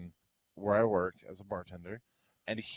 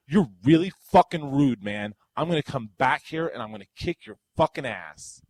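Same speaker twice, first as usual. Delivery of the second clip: louder retold threat from an angry customer; hammed-up tough-guy threat, louder; mock threat shout; 3 semitones higher, 7 dB louder than usual. Customer storming off and threatening the bartender, loud mock threat.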